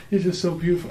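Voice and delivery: choked-up gush. Retold or imitated. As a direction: say it again, overcome with emotion. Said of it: "And I look at her".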